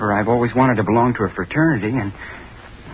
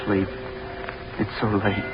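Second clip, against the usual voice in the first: tormented whisper; 5 semitones lower, 7 dB quieter than usual. Acted. Sleepless, tormented whisper to himself.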